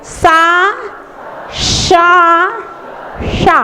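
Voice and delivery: "सा, शा, शा" with long separate hisses; three distinct sibilants. Shown as a demonstration. Teacher showing the difference between three sibilants, contrast demo. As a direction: separate "सा" from the two "शा" sounds, slowly. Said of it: "तीनों सा के उच्चारण में अंतर".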